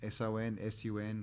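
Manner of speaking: S O N then S U N, letter by letter; spelling "S O N" and "S U N" letter by letter; spelled out letters. Shown as a demonstration. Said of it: "even like sun".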